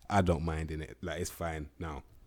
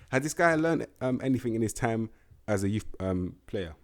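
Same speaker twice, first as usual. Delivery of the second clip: incredulous repeat; 3 semitones higher, 3 dB louder than usual. Real, not acted. Repeating the question in disbelief.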